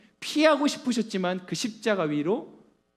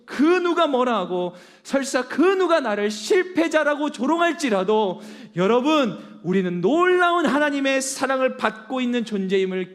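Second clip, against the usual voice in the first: fervent preaching; 4 semitones higher, 5 dB louder than usual. Real, not acted. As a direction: throw each word out to the congregation. Preaching at full force.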